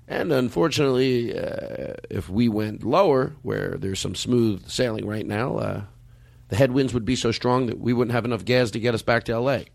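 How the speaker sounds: lightly voiced pilot over the intercom; pilot announcement voice. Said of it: "He goes".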